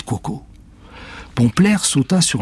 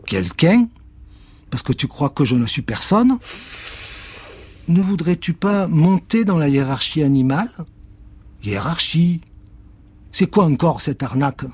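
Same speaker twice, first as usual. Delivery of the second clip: voix aiguë, indignée; s'offusque, méfiant; chat vexé; 6 semitones higher than usual. Acted. Cat indignant. (le chat se vexe, voix aiguë)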